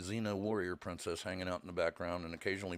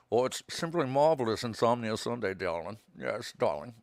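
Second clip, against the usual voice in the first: through gritted teeth; 6 dB louder than usual. Pretend. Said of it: "Talk through your teeth".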